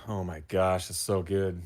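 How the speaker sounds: talking between spoonfuls of soup; eating soup. Real, not acted. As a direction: mouth full of soup. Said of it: "you're still eating that soup".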